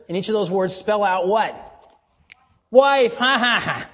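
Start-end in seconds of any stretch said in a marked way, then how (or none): 2.7-3.2 loud, higher burst on the answer; exclaimed payoff to a question; calling out. Real, not acted. 3.2-3.9 loud, high ha-ha-ha laugh; hearty laugh at his own reveal. Real, not acted.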